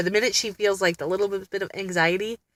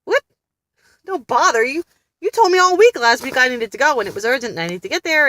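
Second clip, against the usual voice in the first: indignant disbelief; 6 semitones higher, 5 dB louder than usual. Retold or imitated. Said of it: "And I'm like".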